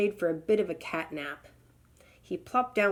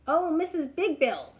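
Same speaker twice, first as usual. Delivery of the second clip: high, raised call for help; 9 semitones higher, 3 dB louder than usual. Acted. Stuck turtle calling up to the hornbill, high. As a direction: sing out her name to get her attention. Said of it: "he called".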